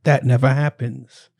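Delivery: a bad, lightly put-on English accent reading a tweet; horrible English accent. Shown as a demonstration. Reading a comedian's tweet in a bad English accent. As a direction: read it in a clumsy English accent. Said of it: "That was my horrible English accent".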